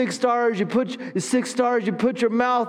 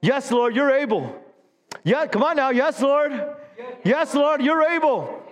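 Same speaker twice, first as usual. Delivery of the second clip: climbing higher with each yes lord; building fervour; 4 semitones higher than usual. Shown as a demonstration. Pastor stirring the church, building from plain to fervent. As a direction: build it like a rising prayer. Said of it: "We need to say in our spirit".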